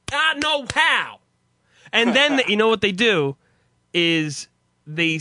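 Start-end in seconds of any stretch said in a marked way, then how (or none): 0.1-1.2 higher, slow, each word a slap; spaced-out sassy delivery; African American accent. Retold or imitated. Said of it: "every word is a slap".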